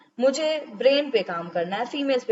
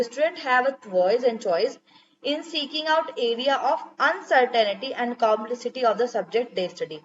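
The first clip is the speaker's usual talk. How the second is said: slow reading; much slower than usual. Acted. Teacher reading a definition to students, slow dictation. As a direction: slowly read English definition. Reads English definition aloud.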